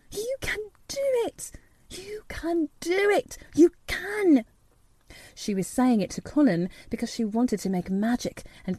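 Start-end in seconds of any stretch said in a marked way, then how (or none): 0.1-4.4 muttered. A narrator's reading. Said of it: "muttering something under her breath".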